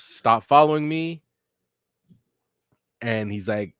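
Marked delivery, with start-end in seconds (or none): 0.0-1.2 high, louder mock yell; imitated scream. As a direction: yell it in character, half in earnest. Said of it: "Naruto screams".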